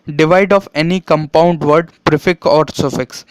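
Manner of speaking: slow, deliberate reading of the rule aloud. Shown as a demonstration. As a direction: spell the rule out slowly for students. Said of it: "reads the rule slowly".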